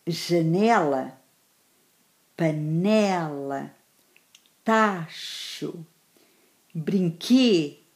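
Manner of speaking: janela, panela, sapato with the second-last syllable drawn out; word-by-word list, long stressed syllable in cabeça, braço, perna; stress on penultimate syllable. Shown as a demonstration. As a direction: dictate bonito, vestido slowly, leaning on the second-last syllable. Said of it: "Na penúltima sílaba".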